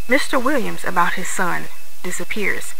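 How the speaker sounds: loud, formal newscaster read; news reporter voice. Acted. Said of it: "Let's put my news reporter voice".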